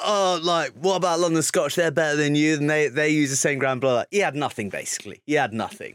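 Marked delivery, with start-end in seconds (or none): 0.0-3.8 put-on Paul Gustard's accent. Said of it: "you've nailed his accent as well".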